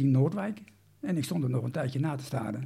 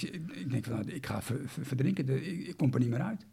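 zacht berustend; 3 semitones lower, 5 dB quieter than usual. Retold or imitated.

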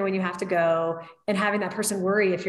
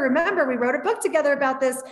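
mock scolding; 5 semitones higher than usual. Scolding her mother about food.

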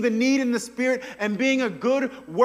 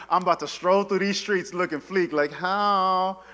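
smug strut; 2 semitones lower than usual. Retold or imitated. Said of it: "feeling real good about himself".

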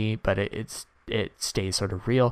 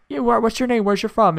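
interviewer guy; 13 semitones higher, 7 dB louder than usual. Retold or imitated. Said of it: "the guy's like".

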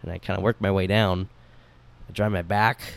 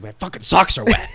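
higher, laughing mock complaint; imitating a whiny complaint; 7 semitones higher than usual. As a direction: whine it through a laugh, half-joking. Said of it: "she's like".

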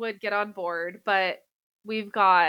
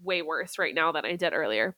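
stuffy blocked nose; congested; 3 semitones lower, 5 dB quieter than usual. Real, not acted. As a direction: speak through a stuffy nose. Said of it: "I'm realizing I sound way worse".

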